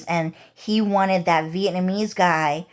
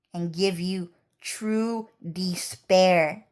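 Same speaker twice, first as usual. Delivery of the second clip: menacing villain; 4 dB quieter, much slower than usual. Retold or imitated. Villainous threat in retold confrontation.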